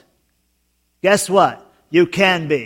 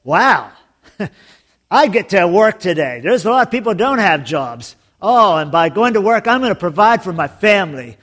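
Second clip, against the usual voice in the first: grateful and glad to go to work; cheerful toll booth guy. Retold or imitated. Pastor voicing a happy toll worker, mildly excited. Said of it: "the toll booth guy could be sitting there saying".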